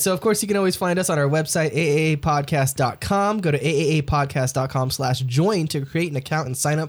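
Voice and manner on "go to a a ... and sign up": rattled off without a breath; one long breathless read; all in one breath. Real, not acted. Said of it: "I said all that in one breath".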